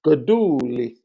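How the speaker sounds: name said with a touch of Italian flourish; put-on Italian flourish. Shown as a demonstration. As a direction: lean into the Italian sound of Gaduli. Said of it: "do we have to put the, uh".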